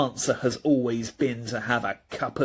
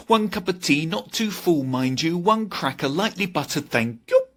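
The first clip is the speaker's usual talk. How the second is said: imitating Gran; 5 semitones higher than usual. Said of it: "My gran would always say".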